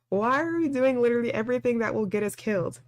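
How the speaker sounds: ordinary talk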